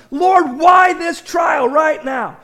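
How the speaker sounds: slow, loud plea to the Lord; crying out to God. Retold or imitated. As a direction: stretch out the lament. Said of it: "I've cried out to God".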